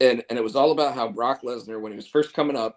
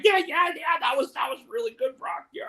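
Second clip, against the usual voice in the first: nervous yes-man; 12 semitones higher than usual. Retold or imitated. Paul nervously agreeing with Brock.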